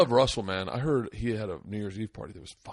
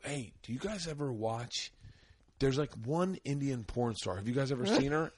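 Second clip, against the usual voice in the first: casual innocent; 7 dB quieter than usual. Retold or imitated. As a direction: ask it sweetly with no idea. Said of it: "And I go".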